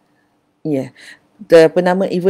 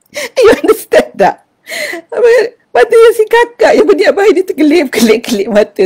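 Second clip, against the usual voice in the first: high, loud, laughter-filled telling; laughing while talking; 6 dB louder than usual. Real, not acted. Grandmother tells the funny story while still laughing. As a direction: talk through the giggles.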